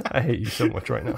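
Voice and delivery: mock annoyance through laughter; laughing mock hate. Real, not acted. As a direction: tease back while laughing.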